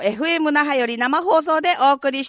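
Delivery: hoarse, husky radio voice; rough scratchy throat on air; gravelly voice. Real, not acted. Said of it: "ちょっとガラガラ声でね". (ガラガラ声)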